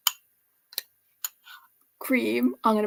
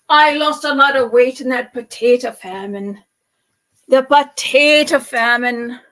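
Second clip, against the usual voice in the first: louder, mock proud punchline; loud joking boast; 8 dB louder than usual. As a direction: play the famine joke big. Joke, loud delivery.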